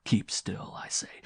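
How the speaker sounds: firm command. Acted. Man holds the struggling woman, controlled command. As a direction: order firmly, holding back the volume.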